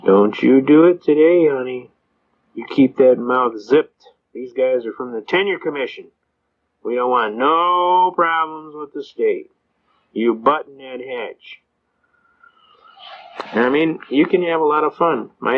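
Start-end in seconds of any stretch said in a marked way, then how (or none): 0.0-11.6 lightly voiced judge, slow and deliberate; a hint of a stern judge cautioning the prosecutor, drawn out; stern judge's warning. Judge warns the prosecutor aside.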